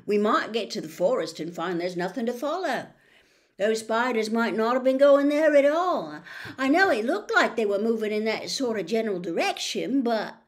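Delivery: lightly voiced boy, rushing his doubts; Ron, uneasy. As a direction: Ron talking himself out of the hunt, nervous.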